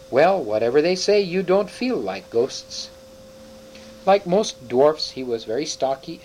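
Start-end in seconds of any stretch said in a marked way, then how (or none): 0.1-2.9 exclaiming. Acted. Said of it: "and exclaimed".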